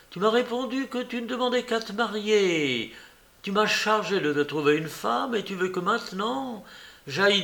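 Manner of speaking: acted exasperation, building point by point; exasperated reproach. Aunt reproaches her nephew.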